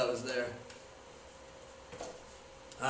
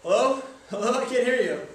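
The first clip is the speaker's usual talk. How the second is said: cell phone caller; 4 semitones higher, 6 dB louder than usual. Pretend. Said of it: "impression of a cell phone person calling me".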